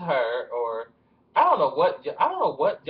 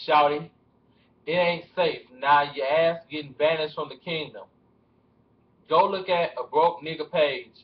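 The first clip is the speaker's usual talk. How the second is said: lightly put-on T.I. accent; measured T.I. accent with pauses between phrases. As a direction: read it out in an attempted T.I. accent. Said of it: "It's so hard to do my T I accent".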